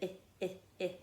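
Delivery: "I" said as ih, repeated in separate bursts; short I sound. Shown as a demonstration. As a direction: isolate the vowel "I" as a short ih each time. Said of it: "it's a short I sound".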